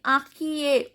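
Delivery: "inquiet" ending on the vowel; "inquiet" as a teacher's careful model; silent final T. Shown as a demonstration. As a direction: say "inquiet" without the T. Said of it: "T is not pronounced".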